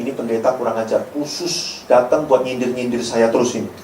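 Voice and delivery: quick, low grumble; soft, disgruntled aside; offended listener. Acted. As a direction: mutter resentfully about the pastor. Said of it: "yang merasa gini".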